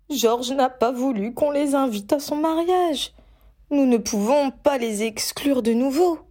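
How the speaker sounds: high, insistent mother's voice. Acted. Mother insists on inviting the cousins, high and firm. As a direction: press the point firmly as mum. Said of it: "insista Molly".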